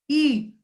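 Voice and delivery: ई said short and quick; a brief ई, not drawn out; short vowel ई. Shown as a demonstration. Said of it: "जिसे हमें short करके बोलना".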